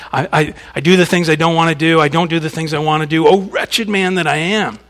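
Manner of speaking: desperate. Acted. Preacher acting out Paul's inner struggle, desperate. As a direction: tumble through it, at wit's end. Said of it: "Can you hear that desperation in his voice?".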